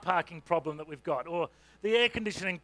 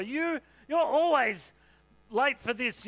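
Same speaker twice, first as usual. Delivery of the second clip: higher, slow, drawn-out complaint; exasperated accusation; 4 semitones higher, 3 dB louder, slower than usual. Retold or imitated. A spouse complaining about lateness, higher and exasperated. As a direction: let the frustration drag out the always. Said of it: "don't say always or never".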